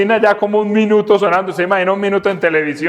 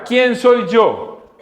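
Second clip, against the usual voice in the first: slow drawn-out question; 6 semitones higher, much slower than usual. Acted. Preacher repeats Moses' question.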